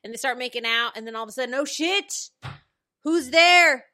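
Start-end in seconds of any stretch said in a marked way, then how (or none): 1.6-3.8 high loud startled yelp; startled caught out. Retold or imitated. Regina caught kissing, mock startled loud shout. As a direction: jump like you've been caught.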